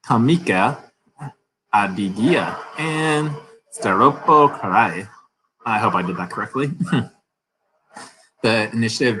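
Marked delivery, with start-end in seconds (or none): 0.1-5.1 Kamika Adigia and Staropo Krai, sounded out slowly; careful place names. Real, not acted. Newsreader tries foreign place names, slow and careful. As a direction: spell out the place names syllable by syllable. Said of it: "let's see if I can say this".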